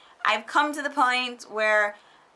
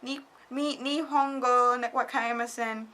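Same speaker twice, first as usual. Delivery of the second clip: helpless foreigner. Retold or imitated. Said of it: "I'm just like".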